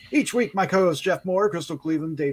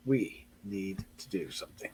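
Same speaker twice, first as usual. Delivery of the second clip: ominous low title read; 11 semitones lower, 11 dB quieter than usual. Acted. Ominous title read after synopsis.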